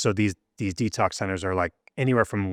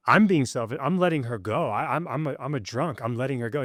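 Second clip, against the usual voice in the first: higher, protesting retelling; indignant protest; 5 semitones higher than usual. Retold or imitated. Son in detox arguing with his mentor, high indignant protest. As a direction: push back, defensive and raised.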